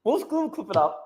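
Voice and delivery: ordinary delivery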